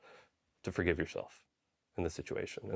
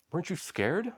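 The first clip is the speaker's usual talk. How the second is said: much higher, wide-eyed nurse question; higher mock-nurse concern; imitating the nurse; 10 semitones higher than usual. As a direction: ask it in wonder. Nurse voiced in story.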